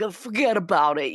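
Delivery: light mock New York Italian accent. Mocking cheesy movie dialogue in a light New York Italian accent. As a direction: toss it off like a hint of a New York wiseguy. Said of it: "than New York, like".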